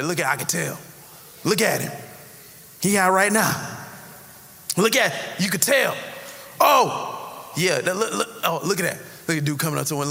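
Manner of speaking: snide gossip mocking strangers; gossiping judgment. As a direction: sneer at passersby. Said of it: "People do it all the time".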